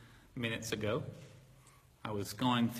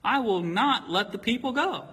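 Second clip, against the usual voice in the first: Pharaoh defiant; 6 semitones higher, 4 dB louder than usual. Retold or imitated. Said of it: "he says".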